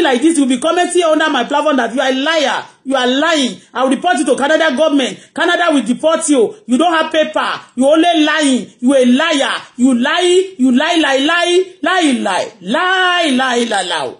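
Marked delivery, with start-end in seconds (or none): 3.7-14.1 mocking imitation. Mocking the abuser's words.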